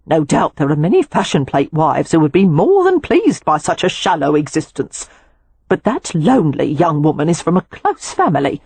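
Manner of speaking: lightly voiced older woman, annoyed then tender; indignant housekeeper. Housekeeper defends Poppy.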